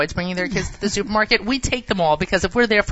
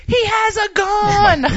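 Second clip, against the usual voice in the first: loud, high, drawn-out scream; retold scream; 13 semitones higher, 7 dB louder, much slower than usual. Mother retelling her son's scream in the supermarket, screamed. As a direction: imitate a kid screaming out in the store. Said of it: "and he screamed".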